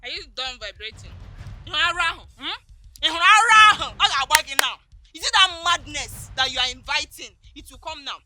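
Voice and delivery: screaming threats. Acted. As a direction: scream him off the compound. Girlfriend screaming threats back.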